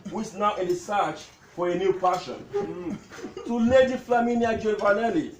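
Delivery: measured recital, pausing between lines; comic tribute poem. Acted. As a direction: declaim witty verses to an amused crowd. Recites his poem to gathering.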